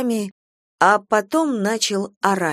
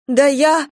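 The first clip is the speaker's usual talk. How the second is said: high, startled, cut short; flustered high-pitched false start; choked protest; 7 semitones higher, 5 dB louder than usual. A narrator's reading. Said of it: "Кира поперхнулась".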